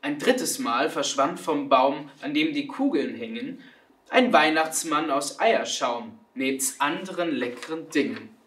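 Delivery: measured storytelling verse; expressive children's verse reading; poem recitation. A narrator's reading.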